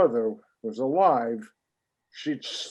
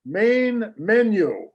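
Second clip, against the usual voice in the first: higher, slow, over-enunciated order; 5 semitones higher, slower than usual. Acted. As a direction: bark it slowly at the phone. Yelling command at phone.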